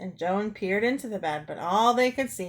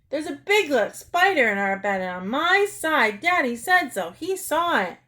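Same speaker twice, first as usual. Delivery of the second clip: high, insistent frightened yell; 6 semitones higher, 4 dB louder than usual. Acted. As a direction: yell in alarm, pitch climbing. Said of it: "pounding on the bed and yelling".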